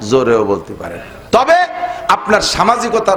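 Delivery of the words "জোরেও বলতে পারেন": জোরেও dropped much lower and falling; lower firm take. Shown as a demonstration. Preacher to the congregation, low falling close. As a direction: drop low and close it firmly.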